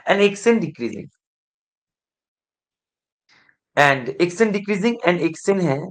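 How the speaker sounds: very slow, word by word for note-taking; slow dictation. Shown as a demonstration. Teacher reading the condition aloud so students can follow, very slow. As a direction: spell the condition out slowly.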